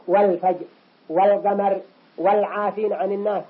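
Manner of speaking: audible l in "والفجر", "والقمر", "والعافين"; clear lam. Shown as a demonstration. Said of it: "ظهر". (إظهار لام "والفجر" و"والقمر" و"والعافين")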